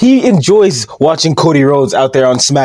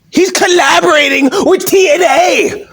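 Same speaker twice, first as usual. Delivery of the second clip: high, slow, shouted disbelief; stretched-out incredulous yell; outraged shout; 12 semitones higher than usual. Real, not acted. Outraged discovery of rival collab.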